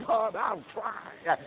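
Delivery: fervent, stretched pledge to God; earnest vow. Retold or imitated. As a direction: draw the promise out, lifting the pitch. Vow repeated with rising force.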